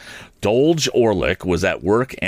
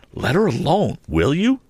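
raised warning; 8 semitones higher than usual. A narrator's reading. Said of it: "said Joe".

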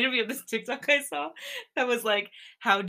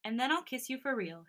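hushed, softer and lightly lifted; soft and breathy; 4 semitones higher, 8 dB quieter than usual. A narrator's reading. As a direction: say it softly, like an intimate promise. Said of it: "His voice gets soft and breathy again".

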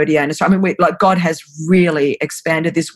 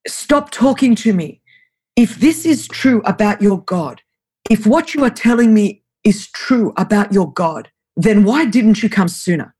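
slow, lightly put-on Russian accent, raised pitch; thick Russian accent; 4 semitones higher than usual. Russian girl challenges the woman about her God, imitated Russian accent. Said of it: "just with a thick Russian accent".

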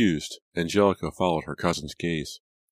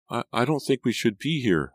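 stammering; 8 semitones higher than usual. A narrator's reading. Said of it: "Liza stammered".

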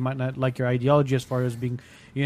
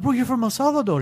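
incredulous; 9 semitones higher than usual. Retold or imitated. Disbelieving reply to contractor.

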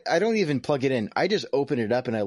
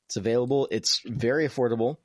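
ad read. Acted. Mock product ad pitch.

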